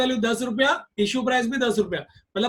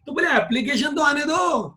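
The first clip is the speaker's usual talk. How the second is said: higher, raised insistent line; emphatic call; 6 semitones higher than usual. Shown as a demonstration. Teacher stressing first let applications come. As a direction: insist firmly to the class. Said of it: "emphatic repeat".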